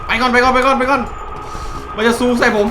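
loud high frantic cries; panicked yelling. Real, not acted. Gamer fleeing the charging monster, panicked yells. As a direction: scream to get away fast.

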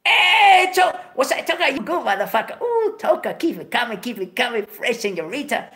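high, shouted hey with a laugh; greeting the room like a movie star, shouting. Retold or imitated. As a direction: boom it out like a celebrity.

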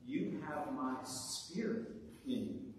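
softly spoken, gentle assurance; a touch of hushed reassurance; voice of Jesus. Acted. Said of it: "so does the voice of Jesus".

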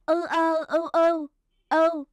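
each sound of "ư ơ ư ư" separated, then "ư" said whole; spelling aloud. Shown as a demonstration. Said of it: "chúng ta sẽ đánh vần là". (đánh vần từng âm "ư ơ ư ư")

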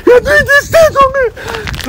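very high, slow wail; drawn-out heartbroken crying. Acted. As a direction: drag the words out through sobs. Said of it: "Why are you crying?".

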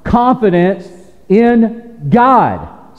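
slow emphatic statement. Shown as a demonstration. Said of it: "Say it again".

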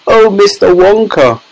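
high, pleading wail. A narrator's reading. Mother begs Wonka for help, high wail. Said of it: "wailed Missus Teavee".

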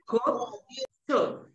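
"could, should" with short, loose oo and silent L; short open U. Shown as a demonstration. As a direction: say "could, should" to rhyme with "good". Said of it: "No, es good".

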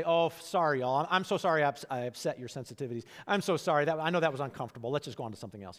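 lightly voiced, hammed-up sorry; mock apology. Preacher mocking an apology Jesus never made, hammed-up. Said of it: "he doesn't say".

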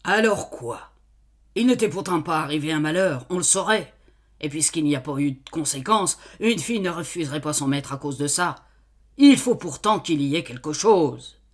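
thinking aloud. Acted. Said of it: "comme se parlant à lui-même".

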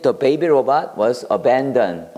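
slow, careful model sentence for learners; slow teacher read. Shown as a demonstration. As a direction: read it out slowly, word by word. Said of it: "model sentence".

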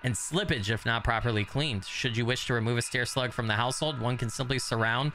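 even, steady read-out of an entry; reading aloud. Real, not acted. Player reading the stair slug entry, measured read-aloud.

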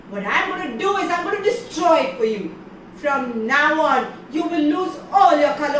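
punish the proud moon; a furious god's curse, with weight on all. Acted. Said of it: "Ganesha was furious".

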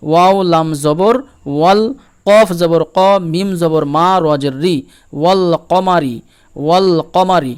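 teacher's measured model reading, clear l in "ওয়াল"; spelled-out recitation. Shown as a demonstration. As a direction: spell letter by letter, then join as "ওয়াল কমারি" with a full l. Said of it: "আমরা এইভাবে পড়ব".

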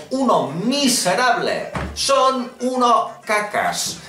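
hammed-up cartoon villain cursing; cartoonish mock insults. Childish mock insults at Microsoft. (insultos infantiles en voz de caricatura)

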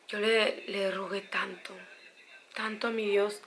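whispered, slow, close to tears; a real whisper, slow and overcome. Real, not acted. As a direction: breathe it out as a real hushed confession. Recalling praying for her mother.

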